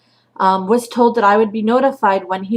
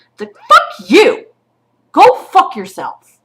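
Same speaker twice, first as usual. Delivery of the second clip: louder and slow, spitting each word; slow angry curse; 8 semitones higher, 7 dB louder, slower than usual. Real, not acted. Mother curses at the shelter, slow and loud. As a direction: curse them out.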